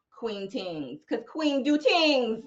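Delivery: a hint of a playful mock Jamaican accent, slow on the second line; lightly put-on Jamaican lilt as a segment title; bad Jamaican accent. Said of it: "that's my bad Jamaican accent".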